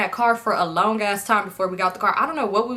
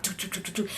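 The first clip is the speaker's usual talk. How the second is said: much softer hummed creepy chase tune; Get Out music hum; 3 semitones lower, 12 dB quieter than usual. Retold or imitated. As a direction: hum the horror-movie theme under your breath. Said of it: "like the man in Get Out".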